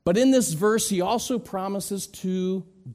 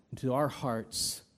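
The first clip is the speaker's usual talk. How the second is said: softer, lower, hushed; soft whisper-like; 5 semitones lower, 7 dB quieter than usual. Acted. Preacher voicing God's hushed shalom to hearts, softly. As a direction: breathe shalom gently.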